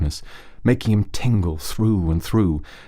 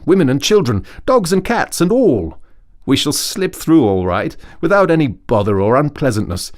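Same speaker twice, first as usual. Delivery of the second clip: higher, louder Rat voice, confident; 6 semitones higher, 4 dB louder than usual. Acted. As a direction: reassure your friend in the Rat's brisk voice. Rat's speech in the story.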